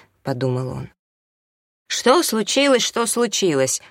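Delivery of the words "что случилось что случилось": high, mocking echo of a question; angry bark. A narrator's reading. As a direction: bark his question back at him. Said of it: "гаркнула на него Анжела".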